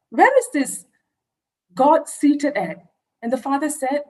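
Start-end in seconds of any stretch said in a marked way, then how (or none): 0.1-2.8 put-on insistent little girl. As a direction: demand an answer like a stubborn little girl. Child presses father with questions.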